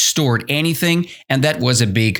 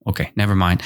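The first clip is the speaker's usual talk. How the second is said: usual speaking voice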